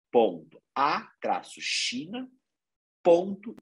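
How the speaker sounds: slow address reading; slow dictation. Shown as a demonstration. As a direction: slowly read out web address. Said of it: "o site é".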